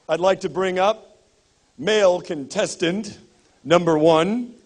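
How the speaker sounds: booming emcee introduction; announcer voice. Acted. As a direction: call them up like a game show host. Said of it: "This is my announcer voice".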